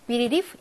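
비리리프 with a devoiced f at the end; final F sound. Shown as a demonstration. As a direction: read 비리리프 ending on voiceless f. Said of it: "이렇게 읽습니다".

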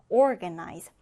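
"organize" with the stress on OR; stress on first syllable. Shown as a demonstration. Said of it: "첫 음절에 강세를 두고요". ("organize" 첫 음절에 강세)

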